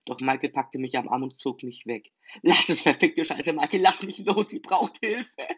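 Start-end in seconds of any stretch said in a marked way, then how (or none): 2.4-5.5 higher, loud, frantic yell; desperate shout to be let go. Acted. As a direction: fight free and scream at him. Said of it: "schreite ich ihn an".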